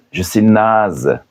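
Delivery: slowed, careful second take; slow demo. Shown as a demonstration. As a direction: spell it out slowly for learners. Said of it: "Je peux aussi dire".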